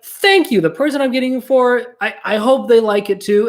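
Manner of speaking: grateful excited thanks. Retold or imitated. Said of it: "she was like".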